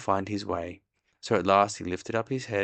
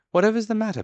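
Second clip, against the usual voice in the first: surprised Christopher Robin; 14 semitones higher, 7 dB louder, much faster than usual. A narrator's reading. Christopher Robin asks Piglet.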